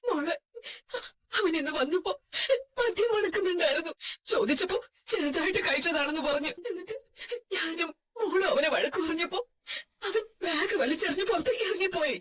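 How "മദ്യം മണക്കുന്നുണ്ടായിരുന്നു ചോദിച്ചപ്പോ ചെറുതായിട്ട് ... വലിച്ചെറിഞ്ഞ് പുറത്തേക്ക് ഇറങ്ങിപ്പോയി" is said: tearful telling with broken pauses; weeping account. Acted. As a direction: sob through what he did. Mother tells daughter, weeping. (കരഞ്ഞുകൊണ്ട് വിവരിക്കുന്ന അമ്മ)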